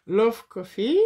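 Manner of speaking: Love Coffee read out in English with a thick French accent. Real, not acted. Crafter reading her title aloud to viewers, French-accented English. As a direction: say the English words the French way, self-mocking. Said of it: "j'ai un accent anglais, formidable".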